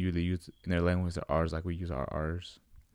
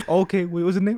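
high school receptionist; 11 semitones higher, 7 dB louder than usual. Retold or imitated. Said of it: "And they're like".

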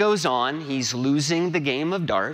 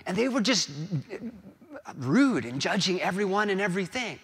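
higher-pitched, earnest retelling of a coach's speech; Ted Lasso; 6 semitones higher, faster than usual. Retold or imitated. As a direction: lightly voice the coach telling his story. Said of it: "try to get the gist of it, of Ted Lasso's words".

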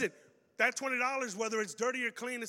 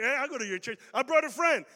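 proud announcement; 4 semitones higher, 8 dB louder than usual. Pretend. Churchgoer brings Christian friend.

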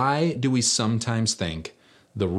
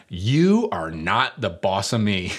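put-on childish defiance; slower than usual. Mock childish defiance to older sister.

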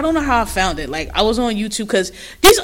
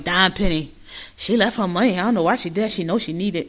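soft, absent-minded imitation; Jocelyn; 4 semitones lower, 6 dB quieter than usual. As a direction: mimic someone idly thinking aloud, lower and softer. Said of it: "she said that shit, like, so absent-minded".

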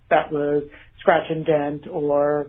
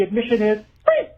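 ad tagline; 3 semitones higher, faster than usual. Retold or imitated. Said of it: "it would always be the".

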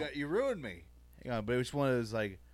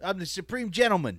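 raised, forceful mob boss bluster; mock tough-guy impression, pitched up; Tony Soprano; 4 semitones higher than usual. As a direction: do a hammed-up mobster laying down a threat. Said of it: "It's hard for me to do like Tony".

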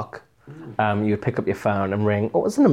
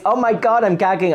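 mock excitement; 8 semitones higher than usual. Reacting to Moon's boring outfit, mock excitement. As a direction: gush over it in mock awe.

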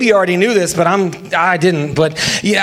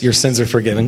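gentle Jesus voice; 11 semitones lower, much faster than usual. Shown as a demonstration. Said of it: "tell him in the way you hear Jesus".

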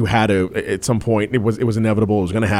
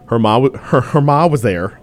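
bad Scottish accent; 4 semitones higher, 4 dB louder than usual. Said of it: "I can't even do a, a Scottish accent".

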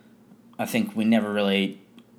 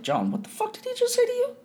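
retold angry outburst; faster than usual. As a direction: replay your own furious reaction half-acted. Angry at racist remark, retold.

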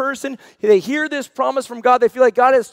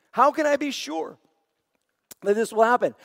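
doubtful question. Shown as a demonstration. Zechariah questions the angel, lightly doubting. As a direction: ask it as if you don't really believe. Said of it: "Same words, different heart".

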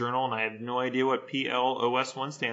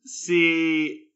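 laughing; 5 semitones higher, 7 dB louder, much slower than usual. Real, not acted. Laughing through the punchline.

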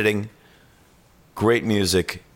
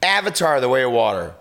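incredulous; 3 semitones higher than usual. Real, not acted. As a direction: say it like you can't believe it. Co-host repeats it in disbelief.

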